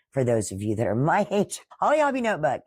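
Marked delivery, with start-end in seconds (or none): 1.8-2.6 nostalgic delight. Real, not acted. Repeats name with nostalgic delight.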